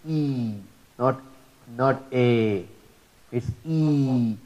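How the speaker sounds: long e sound set against a; e not a. Shown as a demonstration. Teacher contrasting the ya vowel e with a. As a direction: say e clearly, then a. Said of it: "the voice of ya is".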